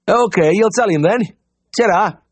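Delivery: cheery high farmer's voice; bright, keen country caller; eager Yorkshire farmer. A narrator's reading. Farmer at the door, cheerfully asking for the vet.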